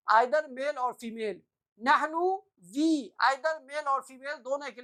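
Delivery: either male or female, slow and deliberate; slow for the learners; slow explanation. Shown as a demonstration. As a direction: spell it out slowly. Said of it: "explaining meaning slowly".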